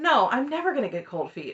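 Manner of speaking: play-acted talking with a little laugh. Retelling what Christine said about cold feet: imitating Christine laughing while talking. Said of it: "the way Christine kinda laughs when she's like".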